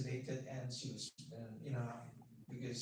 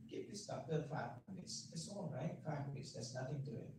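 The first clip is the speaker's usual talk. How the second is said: gentle coaxing; 2 semitones lower, 7 dB quieter than usual. Retold or imitated. Parents coaxing distraught daughter.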